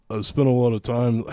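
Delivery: half-hearted attempt at Gersman's voice; Gersman impression. Podcast host reading a statement, attempting Gersman's voice. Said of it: "trying to read this in his voice".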